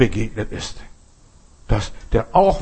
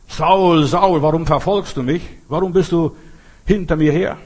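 a loud call from heaven, pitched higher; Jesus calling Saul, raised and urgent; 4 semitones higher, 4 dB louder than usual. Retold or imitated. Jesus calls Saul on the road, loud and high.

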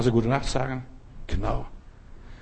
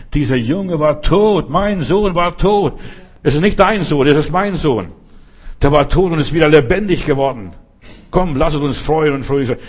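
joyful father; 3 semitones higher, 3 dB louder than usual. Retold or imitated. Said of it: "Dann sagt der Vater".

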